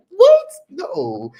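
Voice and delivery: shrieked high, loud what, then flat no; startled loud yelp then a flat no; shocked refusal. Retold or imitated. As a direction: recoil in disbelief then shut it down. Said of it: "And I was like".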